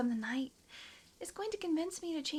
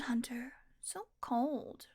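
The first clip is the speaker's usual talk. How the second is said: pouty whisper; slower than usual. Acted. Whining after being refused supper.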